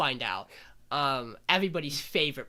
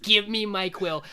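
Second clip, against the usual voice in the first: louder, higher, insistent order; mock demand; 5 semitones higher, 5 dB louder than usual. Adonis charges a witch for his quill, mock forceful demand. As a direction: imitate an impatient grab for it.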